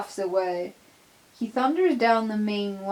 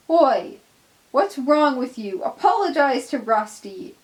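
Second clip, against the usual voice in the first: loud, raised demand; angry confrontation; 4 semitones higher, 5 dB louder than usual. Acted. Peter Sam yelling at Donald to apologize, angry and loud. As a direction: shout him down for the cruelty.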